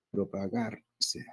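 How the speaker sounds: "Propagarse" drawn out very slowly by syllables; syllable division. Shown as a demonstration. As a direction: sound out "Propagarse" slowly, setting "se" apart. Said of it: "Acá hay una sílaba tónica".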